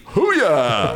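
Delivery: loud, high laughing whoop; a rowdy laughing hoo-yah; whooping cheer. Real, not acted. Guest cheers the station name.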